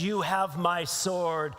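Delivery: slow, measured pledge from a lord; a hint of noble gravity, drawn out; lightly voiced Aragorn. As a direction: lightly play a solemn lord, taking it slowly. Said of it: "Lord Aragorn stands up and says".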